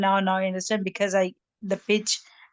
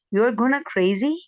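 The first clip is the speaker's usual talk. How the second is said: "you are gonna crazy?" lifted higher, rising on "crazy"; rising question; 4 semitones higher, 5 dB louder than usual. Retold or imitated. Elder daughter asking her sister, rising question tune on "crazy". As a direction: ask it back with a climbing pitch. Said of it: "my elder daughter asks".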